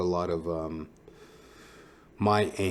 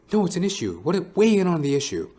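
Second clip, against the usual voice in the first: mock insistent interviewer; 9 semitones higher, 5 dB louder than usual.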